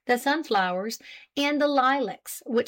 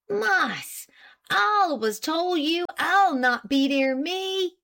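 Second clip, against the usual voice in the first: higher, alarmed French-Canadian protest; alarmed French-Canadian accent; 8 semitones higher, slower than usual. A narrator's reading. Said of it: "cried Pete, alarmed and excited".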